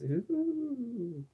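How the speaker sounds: high ghostly ooh; a ghost-story ooh; spooky ooh. Shown as a demonstration. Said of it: "my spooky voice".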